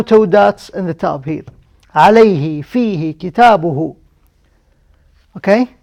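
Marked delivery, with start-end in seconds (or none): 1.9-4.0 "عليه، فيه، كتابه" each with its h sounded before the final vowel; true ha, not ta. Shown as a demonstration. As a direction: recite "عليه، فيه، كتابه" keeping the h, never a t. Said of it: "because there is ha, not ta".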